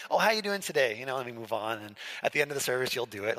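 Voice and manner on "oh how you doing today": quick, offhand hello without really asking; casual passing greeting. Retold or imitated. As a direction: toss it off like you're already moving on. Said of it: "where it's like".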